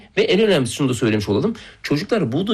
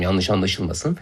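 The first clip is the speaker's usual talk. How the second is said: ordinary talk, nothing marked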